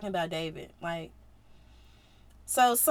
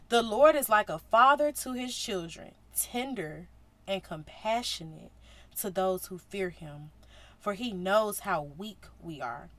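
tender reading; 4 semitones lower than usual. Real, not acted. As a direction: read it gently, like comfort.

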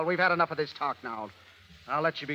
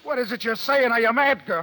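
higher and louder, stunned; shocked disbelief; 7 semitones higher, 4 dB louder than usual. Acted. Matt reacts to Anna's confession, shocked disbelief. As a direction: recoil in disbelief.

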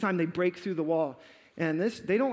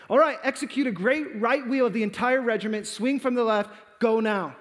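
raised, firm military command; giving orders; 3 semitones higher, 3 dB louder than usual. Retold or imitated. Commander orders the regiment to wheel, commanding. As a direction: call out orders to the whole regiment.

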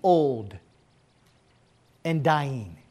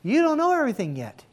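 God speaking; 7 semitones higher than usual. Retold or imitated. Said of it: "allow God to say to you".

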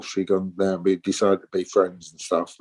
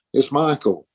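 lightly imitated North England accent, a little higher; Michael Ronson's North England accent; 4 semitones higher, slower than usual. Caller giving a name on the phone, light North England accent. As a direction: put on a hint of North England. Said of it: "sort of North England accent".

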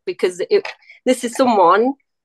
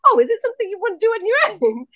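much higher, quicker quoted voice; high-pitched retold question; 11 semitones higher, faster than usual. Retelling her question to her friend.

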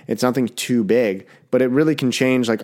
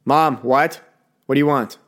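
put-on whiny kid; 4 semitones higher than usual. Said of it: "You're like".

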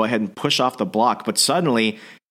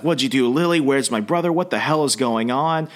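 slightly raised, mildly frantic questions; retold freak-out; 4 semitones higher than usual. Brother questions the suited stranger about Lily, mild freak-out. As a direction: imitate a brother demanding answers. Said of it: "James is freaking out".

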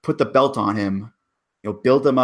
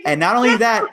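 excited; 11 semitones higher, 5 dB louder, faster than usual. Real, not acted. Excited build in podcast rant.

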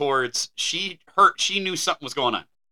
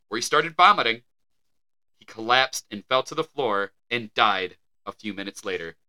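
measured, deliberate article reading; news read; 3 semitones lower than usual. Acted. Co-host reading a 1912 death report, measured news read.

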